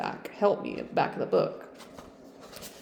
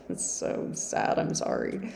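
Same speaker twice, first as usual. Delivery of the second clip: laughing; 6 dB quieter than usual. Real, not acted.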